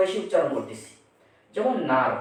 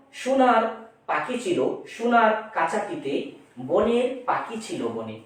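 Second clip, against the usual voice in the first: poem recitation; 5 semitones higher than usual. Shown as a demonstration. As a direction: recite the verse line with measured rhythm. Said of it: "কিরকম আমরা একটু প্রয়োগ দেখি".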